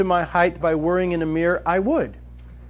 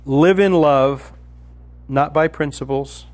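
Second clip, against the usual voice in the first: each word set apart for note-takers; slow, deliberate dictation; 5 semitones lower, slower than usual. Shown as a demonstration. Slow dictation to note-takers. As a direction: spell it out slowly so they can write. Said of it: "I'll give the first one again".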